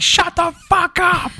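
drawn-out high mock shout; mock yell. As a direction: pretend to snap at noisy kids. Mock yelling at kids in theater.

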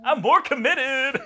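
slow, high laughing boast. Real, not acted. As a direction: drag it out through a laugh. Gloating about picking more.

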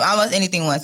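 "almost" picked out as the key word; emphasize "almost" as a caveat; stress on almost. Real, not acted. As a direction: put the weight on "almost". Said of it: "I emphasize almost".

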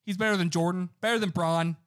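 hyped and loud; bragging about his guy loudly; excited. Real, not acted. Hyping up his favourite player.

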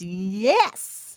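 a firm, emphatic yes; God's stamp of approval. Acted. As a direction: stamp it like a seal. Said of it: "puts a stamp on it and says".

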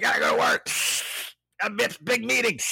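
stressed office worker. Retold or imitated. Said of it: "You know, like".

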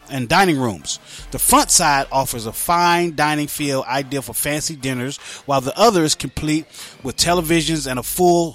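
lively, measured promo delivery; radio ad read. Acted. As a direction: sell the restaurant to radio listeners. Reads a restaurant promo.

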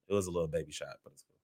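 gum in the mouth while talking; chewing gum. Real, not acted. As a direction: speak around chewing gum. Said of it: "excuse my gum".

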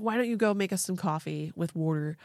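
put-on faint Pennsylvania accent with "wooder"; half-hearted stab at Pennsylvania accent; attempted Pennsylvania accent. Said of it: "don't know how to do this accent".

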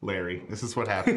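laughing through the words; chuckling as you say it. Pretend. Repeated with laughter.

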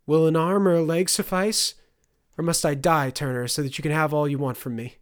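loud, high and accusing; mother hurling a bitter challenge at her son. Acted. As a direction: throw the question at him, near shouting.

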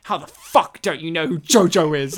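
loud, dead-serious incredulous quote. Retold or imitated. Coworker challenging him about JoJo, dead serious. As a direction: retell his indignant demand with full seriousness. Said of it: "he looked at me dead serious".

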